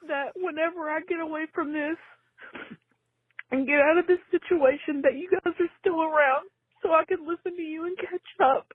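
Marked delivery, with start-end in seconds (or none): 5.0-8.7 tearful, breath catching; crying through the words; catching breath midword. Real, not acted. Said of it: "I'm crying".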